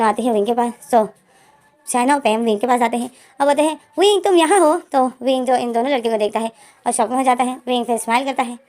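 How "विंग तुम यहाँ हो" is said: surprised greeting. Retold or imitated. Girls find Wing alone.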